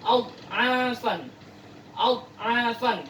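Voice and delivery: "Ad'afan" slowly with a clear dha and no bounce; slow Quranic reading. Shown as a demonstration. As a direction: recite it slowly, no qalqalah. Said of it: "Harus diperjelas huruf dha-nya ya".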